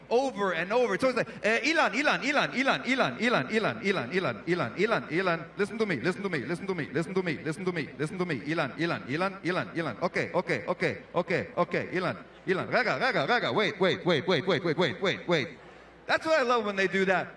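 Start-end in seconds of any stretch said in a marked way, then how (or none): 1.4-12.7 repeating Israeli. Retold or imitated. Comic mimics an Israeli calling his name over and over. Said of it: "Israelis will repeat words and phrases or your name". 12.7-15.5 rapid repetition. Retold or imitated. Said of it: "Israelis will repeat words and phrases".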